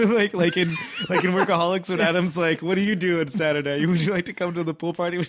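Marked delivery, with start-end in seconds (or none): 2.6-5.3 lightly imitating a southern accent. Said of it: "He's in his southern accent".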